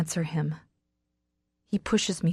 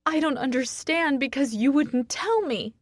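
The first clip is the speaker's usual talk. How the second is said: screech; 8 semitones higher than usual. A narrator's reading. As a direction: screech it in hurt frustration. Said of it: "I screech".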